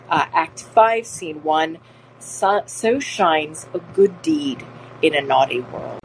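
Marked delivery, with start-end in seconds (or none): 2.2-6.0 slow, steady reading of the quote; quote recital. Shown as a demonstration. Teacher repeating Portia's line for students, slow. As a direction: read it out like Shakespeare. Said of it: "again, Portia".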